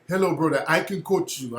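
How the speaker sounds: imitated African-accented barber; light mock African accent. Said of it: "when I heard that accent".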